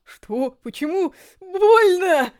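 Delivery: от растерянности к громкому крику боли; вскрикнуть от внезапной боли; боль и ужас. A narrator's reading. Старика рвут кожу. (нарастающий крик боли)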